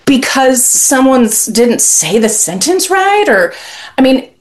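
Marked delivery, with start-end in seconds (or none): 0.0-3.3 incredulous retort. Retold or imitated. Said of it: "And so I'm like".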